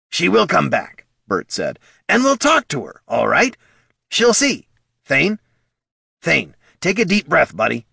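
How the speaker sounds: calm the troll down; kobold soothing. A narrator's reading. Bert urging Thane to breathe.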